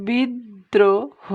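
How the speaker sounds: drawn-out demo of বিদ্রোহ with the দ doubled. Shown as a demonstration. Teacher showing students the doubled দ in বিদ্রোহ. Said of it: "কেমন দেখো".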